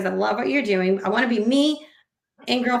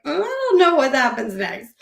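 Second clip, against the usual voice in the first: higher, mildly fretful retelling; mock anxious; 4 semitones higher, 4 dB louder than usual. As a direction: replay your own mild panic, pitched up. Retells own panic after parting ways.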